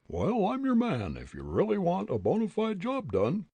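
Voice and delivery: very high, puffed-up pompous voice; pompous man. Acted. Ventriloquized pompous man offering to kick the old gent. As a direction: play a pompous bystander, thrown. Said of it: "Fritz caused a pompous-looking man to say, ventriloquially".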